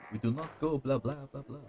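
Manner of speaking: lightly hammed-up Transylvanian accent; stereotypical Transylvanian accent. Player showing off a stereotype, mock Transylvanian accent. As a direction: put on a mock Dracula-style Transylvanian accent. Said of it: "stereotypical, Transylvanian accent".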